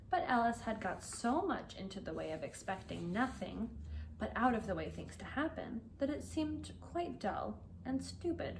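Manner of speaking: clear, lively storybook reading for learners; story narration. A narrator's reading. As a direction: read the tale to English students, unhurried and expressive. Teacher reads Alice chapter aloud.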